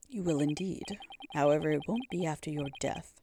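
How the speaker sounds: low, solemn threatening voice; menacing priestess. Acted. Prosecutor's menacing speech.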